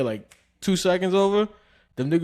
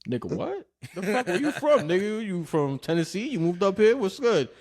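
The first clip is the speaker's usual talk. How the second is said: higher, laughing incredulous questions; mock disbelief; 5 semitones higher than usual. Tire deliverer reacting to an upstate guy, high disbelief. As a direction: act shocked at the twang. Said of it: "and I was like".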